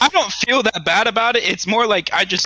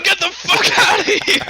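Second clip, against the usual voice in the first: high-pitched mock yell; retold angry shout; 12 semitones higher, 3 dB louder than usual. Homeowner ordering a stranger off his porch, retold angry shout.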